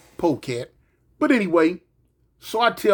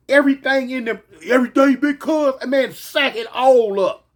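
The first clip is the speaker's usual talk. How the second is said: louder, higher, eager commands; urgent orders; 5 semitones higher, 4 dB louder than usual. Retold or imitated. Narrator ordering his young homies, loud and urgent. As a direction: drive them to grab it all.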